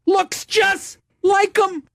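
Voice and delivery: very high, slow words through laughter; helpless laughing. Real, not acted. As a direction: squeeze the words out mid-laugh. Still cracking up, laughs heard before.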